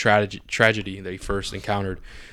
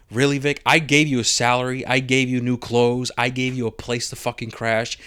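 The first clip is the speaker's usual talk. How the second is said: hurt and wounded; 3 semitones higher, 3 dB louder than usual. Retold or imitated. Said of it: "You could see the emotion and pain".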